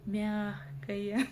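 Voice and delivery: «мягкое» по слогам, с отчётливым окончанием; выдели окончание в слове «мягкое»; окончание слышно. Shown as a demonstration. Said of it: "окончание прибавляется". («мягкое» с чётким окончанием на мягкое «е»)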